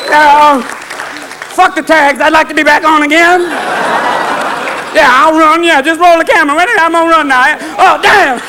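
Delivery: high, woozy drugged animal voice; medicated animal. Acted. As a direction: plead high as a doped show animal. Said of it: "the animals come back next week going".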